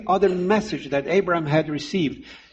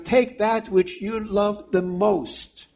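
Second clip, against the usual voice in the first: voice of God; 4 semitones higher, slower than usual. Acted. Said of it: "God was really saying to Abraham".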